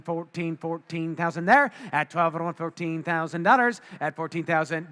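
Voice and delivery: rapid auctioneer bid calling. Real, not acted. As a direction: call the bids like an auctioneer.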